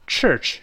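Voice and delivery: church with a curled-tongue ch. Shown as a demonstration. Teacher models church with retroflex sound. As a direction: curl the tongue back on church. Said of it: "注意这个卷舌音啊".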